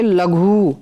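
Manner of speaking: लघु with a drawn-out final oo; long vowel. Shown as a demonstration. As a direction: slowly stretch the end of लघु. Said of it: "बड़े ऊ से बनेगा". (लघु का 'ऊ' खींचकर बोलें)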